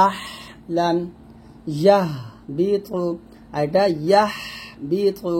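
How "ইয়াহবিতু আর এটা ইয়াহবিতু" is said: "ইয়াহবিতু" slowly with a pressed h; throaty ha. Shown as a demonstration. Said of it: "একটু চাপ দিব". ("ইয়াহবিতু" চাপ দিয়ে)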